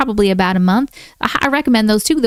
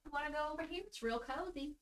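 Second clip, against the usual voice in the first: coaxing a cat; 5 semitones higher, 27 dB quieter, faster than usual. Real, not acted. Coaxing the cat around the room.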